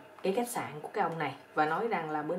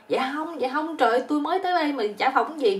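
flustered; 7 semitones higher, 4 dB louder than usual. Acted. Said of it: "thằng này nó quýnh rồi".

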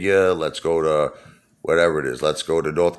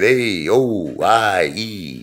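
mock Italian vowels; 3 semitones higher, much slower than usual. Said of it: "He kept saying".

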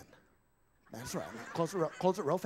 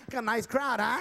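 ventriloquist puppet voice; 6 semitones higher than usual. Acted. Ventriloquist dummy voice.

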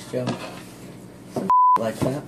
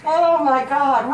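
shocked; 5 dB louder than usual. Real, not acted. Pregnancy reveal, shocked.

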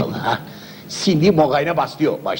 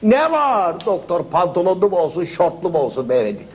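mock doctor voice. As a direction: parrot the doctor's question teasingly. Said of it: "her sözümü yanlış anlar beyefendi".

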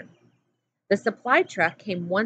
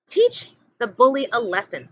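urging; 4 semitones higher, 5 dB louder than usual. A narrator's reading. Pendanski urging Stanley.

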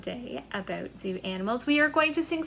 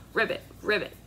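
ribbit; 4 semitones lower, much faster than usual. Shown as a demonstration. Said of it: "frogs croaking".

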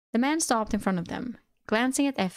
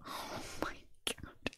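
slow mortified whisper; 17 dB quieter, slower than usual. Real, not acted. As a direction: whisper it, appalled. Reader whispers reaction.

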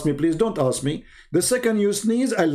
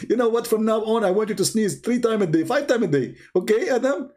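mock god command; 4 semitones higher, faster than usual. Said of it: "Allah, he should be ticklish now".

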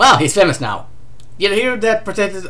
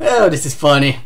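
breathless from laughing; winded, gasping between words; out of breath; 4 semitones lower than usual. Real, not acted. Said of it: "I'm already out of breath".

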